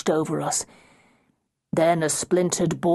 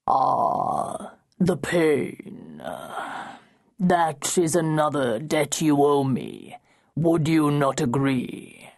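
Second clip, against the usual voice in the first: dark voice; slower than usual. Acted. Dark voice speaks.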